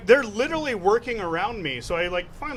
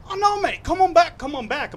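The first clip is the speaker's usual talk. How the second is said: high-pitched Irish bartender imitation; imitated Irish accent; 8 semitones higher than usual. Bartender inviting a customer behind the bar, imitated Irish accent. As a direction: call them back in a put-on Irish accent. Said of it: "when the guy became Irish".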